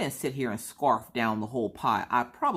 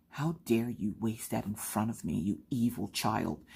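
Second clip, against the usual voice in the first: mock scolding; 4 dB quieter than usual. Mock scolding kids wasting milk.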